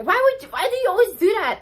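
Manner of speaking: high, loud and quick, baffled at a coworker; puzzled question. Retold or imitated. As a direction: ask it like it makes no sense at all. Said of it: "And I was like".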